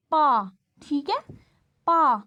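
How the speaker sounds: पा with a long open aa, drawn out; sounding out pa. Shown as a demonstration. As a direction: say पा slowly and clearly as a sound demo. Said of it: "एक word है हमारे पास पा".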